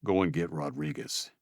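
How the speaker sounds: growled. Acted. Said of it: "growled Luke".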